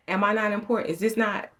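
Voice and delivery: high, loud, hurt protest; retold indignant plea. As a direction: act out pleading with a husband. Acted quarrel with husband.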